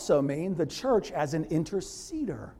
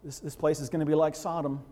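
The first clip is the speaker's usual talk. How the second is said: anxious Abraham; 3 dB louder than usual. Retold or imitated. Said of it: "you can see him going".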